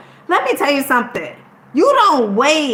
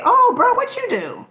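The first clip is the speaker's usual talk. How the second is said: high mock bro; 13 semitones higher than usual. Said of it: "somebody say".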